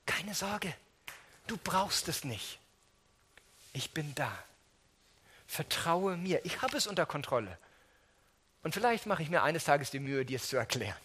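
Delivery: put-on calm a frightened child; God soothing a worried believer, gently; reassuring God. God voiced answering us.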